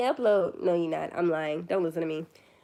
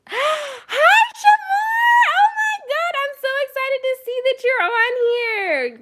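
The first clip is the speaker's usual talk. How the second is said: gasp, then very high, loud squeals of joy; real delight at seeing a friend pop in; thrilled greeting; 9 dB louder, slower than usual. Real, not acted. Streamer spotting a friend in the chat, squealing with joy. Viewer Shamar joins the live.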